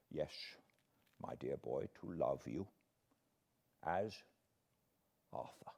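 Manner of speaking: put-on a gentle old man, soft and fond; sweet and tender. Old professor comforting grieving Arthur, soft and tender. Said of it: "The professor answered very sweetly".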